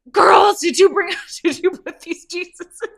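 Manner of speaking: high, loud call across the room, breaking into a laugh; calling out the girls. Retold or imitated. Relative calling out to the girls about the Jesuses, high loud half-laughing shout.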